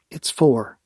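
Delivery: clenched-jaw reply; through gritted teeth. Acted. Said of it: "I said through gritted teeth".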